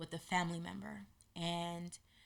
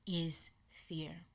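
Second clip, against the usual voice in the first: whispered; 2 semitones lower, 6 dB quieter than usual. Real, not acted. Dramatic pause before key word.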